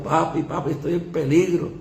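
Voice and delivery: lightly voiced daughter calling out in fear; a hint of a scared girl shouting papi; understated retold scream of a frightened daughter; mild mock cry for help. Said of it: "la voz de mi hija gritando".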